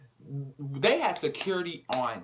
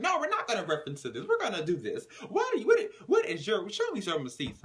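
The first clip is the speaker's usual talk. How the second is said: imitated shout; 8 semitones higher than usual. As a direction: blow up at her, hammed-up. Brittany attacking Marissa.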